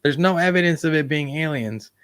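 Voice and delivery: put-on high, nasal old-newsreel announcer; nineteen fifties reporter voice. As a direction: announce it like a 1950s newsman. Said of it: "putting on that nineteen fifties, nasal reporter voice".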